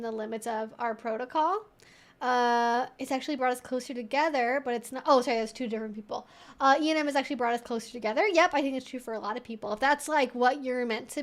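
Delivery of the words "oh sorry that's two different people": ordinary delivery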